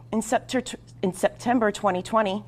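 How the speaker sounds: real stumble on a word, then restart; tripping over words. Real, not acted. Host tripping over words while introducing a long covid guest. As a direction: stumble mid-word and say it afresh. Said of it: "I'm tripping over words".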